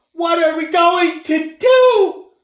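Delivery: high shouted panic; mother's high desperate shout; frantic cry. A narrator's reading. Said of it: "cried Missus Cream".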